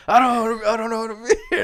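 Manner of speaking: hammed-up pouting, out of place; mock sulking Luke. Wee Man imitating Luke sulking on the roof deck, high whine. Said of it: "He was like".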